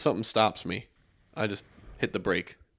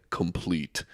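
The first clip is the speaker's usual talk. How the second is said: deep voice; 4 semitones lower than usual. Retold or imitated. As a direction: lower imitated mystery voice. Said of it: "I heard the deep voice say".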